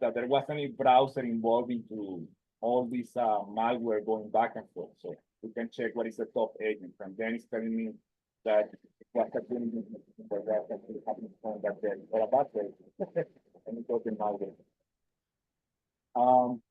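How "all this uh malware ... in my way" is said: muffled microphone sound. Real, not acted. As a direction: voice muffled through the mic. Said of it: "I'm getting your voice muffled".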